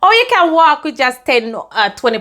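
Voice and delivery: lightly voiced smug man sneering at ten quid; mocking laugh. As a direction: tease her for carrying so little. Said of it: "I remember him laughing at me".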